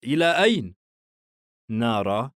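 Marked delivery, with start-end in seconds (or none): 0.0-0.7 mildly astonished question, pitch swooping up; a touch of bewilderment; puzzled surprise. A narrator's reading. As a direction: ask it in surprise, calling after someone leaving. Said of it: "خادر باستغراب يلحق بها".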